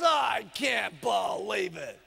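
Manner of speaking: slow, drawn-out disbelief; hammed-up husband's complaint; exasperated husband. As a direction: groan each word out in exasperation. Husband quarrels with wife.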